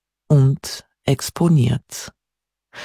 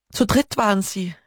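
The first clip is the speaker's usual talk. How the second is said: higher raised call; calling after him; 6 semitones higher than usual. A narrator's reading. Hannah calls after departing Peter, raised call. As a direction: call it after someone walking away. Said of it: "rief sie ihm hinterher".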